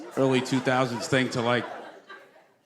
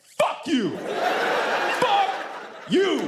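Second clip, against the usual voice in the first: much higher hammed-up yell, laughing through it; mock angry heckler; 12 semitones higher, much slower than usual. Stranger on the street yelling at the comedian, mock angry shout. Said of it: "Or someone's like".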